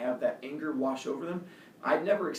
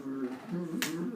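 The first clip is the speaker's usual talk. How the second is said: mock growl; 6 dB quieter, slower than usual. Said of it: "his friends, like, just kept looking at me".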